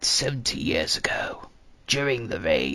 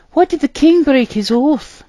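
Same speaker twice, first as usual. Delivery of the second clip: much higher puzzled question; confused; 14 dB louder than usual. A narrator's reading. Arthur asks the storyteller why the oath was broken, confused. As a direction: ask it baffled. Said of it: "Arthur asked, confused".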